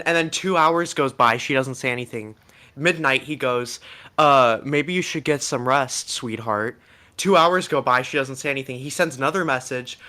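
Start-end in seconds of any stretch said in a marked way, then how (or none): 4.2-6.8 slow, lightly mocking sweet talk; mock sweet-talker. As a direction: imitate a slow, cloying suitor. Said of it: "is, like, talking like this".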